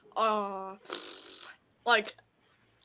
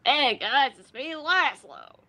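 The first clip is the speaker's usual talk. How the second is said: Lazlo impression; 2 semitones higher, 4 dB louder, slower than usual. Shown as a demonstration. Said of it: "I could do the impression".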